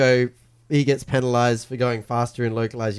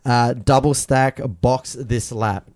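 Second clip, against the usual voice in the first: clipped radio over engine roar; slower than usual. Retold or imitated. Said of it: "I'm just saying it how they said it".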